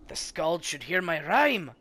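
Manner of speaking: a strange hermit talking in riddles; quirky Trigby voice. Acted. Trigby proud of his rhyme.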